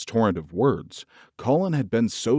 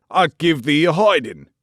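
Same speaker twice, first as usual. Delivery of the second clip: put-on angry old gardener; 6 semitones higher, 6 dB louder than usual. A narrator's reading. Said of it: "he cried".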